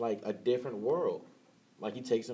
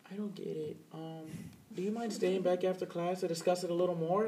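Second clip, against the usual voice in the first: put-on sweet old woman voice; 10 semitones higher than usual. Professor voiced again, same impression.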